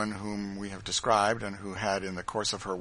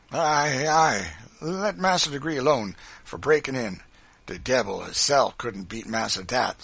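loud, raised Southern dialect voice; fawning henchman; 4 semitones higher, 8 dB louder than usual. A narrator's reading. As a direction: flatter the boss with gusto. Quimbo flatters master in dialect.

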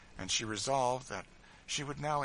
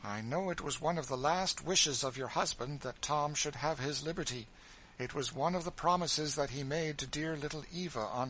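energetic; 5 semitones higher than usual. Acted. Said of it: "said Miss Ophelia energetically".

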